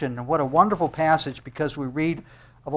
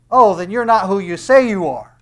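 high, loud taunt; mock him like doubting brothers; jeering; 4 semitones higher, 10 dB louder than usual. Brothers doubting who Jesus says he is, loud jeering. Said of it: "even at the jeering of his brothers".

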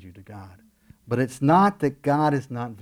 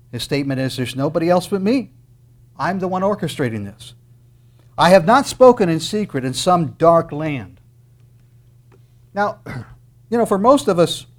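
loud, raised preaching voice; forceful preaching; 5 semitones higher, 10 dB louder than usual. Acted. Preacher declaring God's word to the congregation, forceful preaching. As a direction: proclaim it loudly from the pulpit.

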